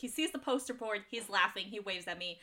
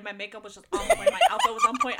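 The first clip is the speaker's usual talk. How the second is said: laughing brag; 8 dB louder, faster than usual. Real, not acted. A fan laughing as she brags to her friends about her look.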